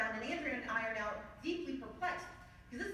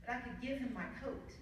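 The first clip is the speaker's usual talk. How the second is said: tender father; 5 dB quieter than usual. Retold or imitated. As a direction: quietly reassure your children. Father's tender explanation to kids.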